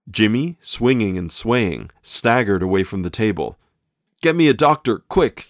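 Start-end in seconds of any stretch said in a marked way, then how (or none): 4.2-5.5 high, strained cry for a doctor; wounded man begging for help; grunted plea. A narrator's reading. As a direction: push the words out through pain. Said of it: "he grunted".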